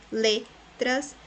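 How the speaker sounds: letras repeated in two parts, LE, tras; stress on first syllable. Shown as a demonstration. Teacher repeating the example, letras split after stressed le. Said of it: "le é a sílaba mais forte".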